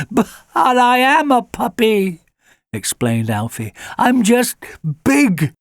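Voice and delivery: a big hound whining that he's just a puppy; high puppy voice, stretching out the last words. Acted. Alfie the puppy explains.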